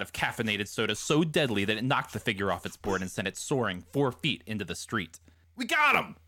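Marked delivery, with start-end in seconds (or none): 5.6-6.2 high, excited yell; triumphant shout. A narrator's reading. Billy's gang hits its target, triumphant shout. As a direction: shout the victory out. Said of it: "Endless Billy shouted".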